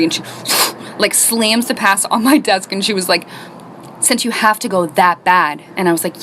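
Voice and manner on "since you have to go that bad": slow, understated irritation; mock angry teacher. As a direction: imitate an annoyed teacher, dragging the words. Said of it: "like, so angry".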